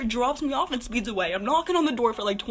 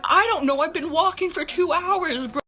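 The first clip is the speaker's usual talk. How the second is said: exasperated; 5 semitones higher, 3 dB louder than usual. Retold or imitated. Acted exasperated reply to mom.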